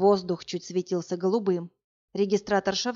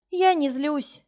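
sighing; 8 semitones higher, 4 dB louder, slower than usual. Acted. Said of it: "вздохнула Варя".

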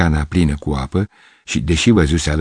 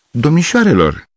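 high, loud indignant call; offended shout; 9 semitones higher, 3 dB louder than usual. Acted. Gavrilescu offended by the girls' laughter, loud indignant cry. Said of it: "strigă el jignit".

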